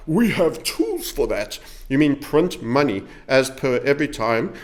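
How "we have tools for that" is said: slow, calm official reassurance; measured central banker voice; Fed Chairman Powell. Retold or imitated. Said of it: "I sound like the Fed Chairman Powell".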